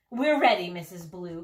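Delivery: eager cry. Acted. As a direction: chirp it out keenly. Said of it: "cried the princesses".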